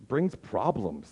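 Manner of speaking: soft, slow and deliberate; hushed and slow. Acted. Preacher stating his point, quiet and slowed. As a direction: brings problems, said softly and slowly with a falling end.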